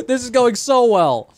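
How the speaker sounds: high, loud sarcastic groan; dripping with sarcasm, slowly. Real, not acted. Paddle broken, no plastic left.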